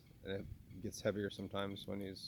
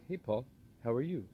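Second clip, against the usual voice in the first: higher-pitched, imitated Boston greeting; Boston accent; 5 semitones higher, 5 dB louder than usual. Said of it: "he would do a Boston accent".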